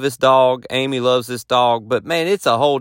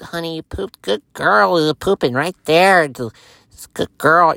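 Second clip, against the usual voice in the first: praising the dog; 4 semitones higher than usual. Retold or imitated. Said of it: "I'm over here cleaning".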